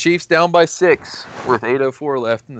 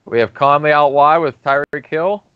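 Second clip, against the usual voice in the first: sportscaster calling the action; play-by-play commentary. Acted. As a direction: call the play like a broadcaster. Mock play-by-play of game.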